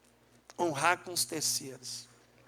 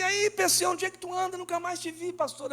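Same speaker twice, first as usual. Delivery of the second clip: bem mais agudo, alegre e surpreso; saudação animada; 11 semitones higher than usual. Retold or imitated. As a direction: reencontrando um velho amigo. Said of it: "Eu digo". (saudação animada e aguda ao amigo)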